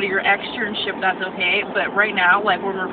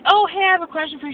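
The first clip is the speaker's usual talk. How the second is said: fake sweet; 9 semitones higher, 3 dB louder, faster than usual. Sweetly approaching the teacher.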